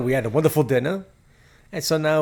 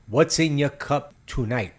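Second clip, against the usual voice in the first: cheesy host; slower than usual. Acted. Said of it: "that was terrible".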